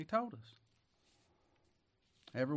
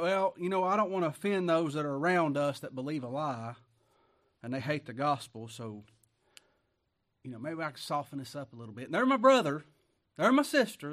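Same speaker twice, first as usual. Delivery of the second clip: mock compromiser; 6 dB louder than usual. Preacher mocks a believer afraid to offend, hammed-up whining.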